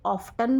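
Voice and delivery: ऑफ्टन with the t sounded in the middle; American often. Shown as a demonstration. Teacher gives the American ऑफ्टन, t sounded. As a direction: say ऑफ्टन with a clear t. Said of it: "वो टी का sound बीच में लेते हैं".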